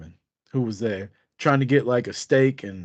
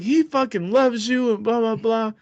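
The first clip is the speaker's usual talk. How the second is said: imitating drunk Angel; 9 semitones higher than usual. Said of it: "and she's like".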